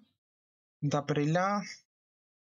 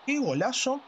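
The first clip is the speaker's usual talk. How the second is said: higher, thrilled goal cry; excited goal commentary; 10 semitones higher than usual. Acted. Goal reaction, excited take.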